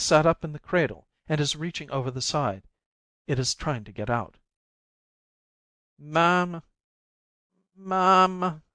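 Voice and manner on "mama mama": put-on high, weak child's sob; feeble sobbing child. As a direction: sob it like a sick baby. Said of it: "it sobs feebly".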